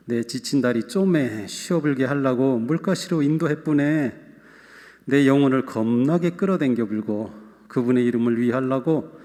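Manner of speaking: scripture read in a lightly put-on Jeolla dialect; 전라도 사투리로 구수하게 읽기. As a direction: read the psalm as a folksy Jeolla local. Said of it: "전라도 버전을 한번 읽어드리고".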